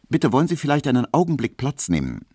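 höher und schneller hinüberrufen; eifrig rufender Friseurgehilfe. A narrator's reading. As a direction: dem Kunden flott ein Sitzangebot zurufen. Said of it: "so rief er". (rasch und hell gerufene Höflichkeit)

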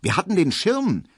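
high, astonished asking; astonished question. A narrator's reading. Frau Braunack asking about the umbrella, astonished. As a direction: sound caught off guard. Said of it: "fragt Frau Braunack erstaunt".

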